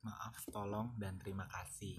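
whispering. Real, not acted. Repeating the three words.

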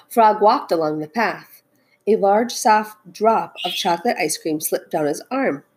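expressive picture-book narration; storytelling. A narrator's reading. Teacher reads Frog and Toad aloud, storytelling. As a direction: read it out to children, stressing key words.

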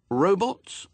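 put-on high hopeful boy's question. A narrator's reading. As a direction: ask with a high lift of hope.

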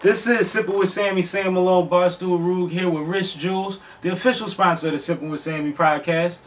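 upbeat sponsor shout-out; holiday sale ad. Acted. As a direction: hype up the sponsor.

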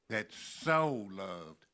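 slow, with "so" held long; stress on SO. Shown as a demonstration. Preacher telling the born again of that love, stress on SO. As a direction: draw "so" out with weight. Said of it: "that word so".

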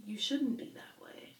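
whispered quote. Retold or imitated.

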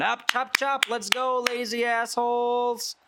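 high, loud chop-chop to lazy staff; barking head server. Acted. Head server chasing lazy servants out, high and loud. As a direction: herd the servants out with contempt.

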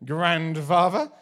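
put-on a toddler's drawn-out English "Grandfather", loud and slow; mock-posh English child saying "Grandfather"; English accent. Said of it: "like in an English accent".

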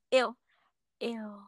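voice crack. Real, not acted. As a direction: voice cracking on the word. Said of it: "That voice crack".

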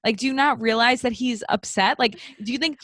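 high-pitched, incredulous telling-off; indignant. Pretend. Host scolding the librarian over crying boy, indignant. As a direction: take him to task in disbelief.

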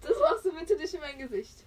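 insist, stressing machst; firm plea. Real, not acted. Friend asks again not to put mask on her face, firmly. Repeat protest, firmer.

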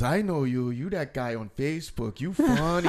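imitating the lady. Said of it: "Said it just like that".

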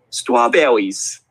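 put-on very drawn-out toddler pronunciation; imitated three-year-old. Littlest girl answers after stopping, mimicked toddler voice. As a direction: answer slowly like a tiny child. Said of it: "who's gotta be three years old".

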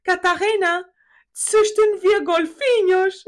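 loud, high mock German dad accent; father's foreign accent. Father urges Catarina to breed dolphins, father's foreign accent. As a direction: proclaim it slowly in dad's hammed-up foreign accent. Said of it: "porque ele fala assim".

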